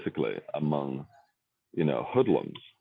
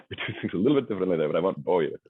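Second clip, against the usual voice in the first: put-on Oxford accent; 2 semitones higher, much faster than usual. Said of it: "if I speak like this".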